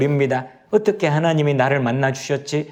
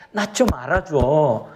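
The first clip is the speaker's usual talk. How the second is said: slow plea; slower than usual. Retold or imitated. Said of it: "하는 이 하나님의 마음이요".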